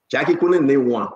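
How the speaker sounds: chuckling through the words; amused, laughing delivery. Real, not acted. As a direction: laugh as you tell it. Laughing while telling the story.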